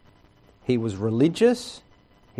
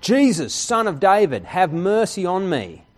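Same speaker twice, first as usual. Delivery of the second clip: calling out; 5 semitones higher, 4 dB louder than usual. Retold or imitated. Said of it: "He calls out".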